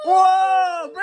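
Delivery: sudden loud high whoa; surprised whoa. Real, not acted. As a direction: caught off guard as the doll tips. Baby doll falls off swing.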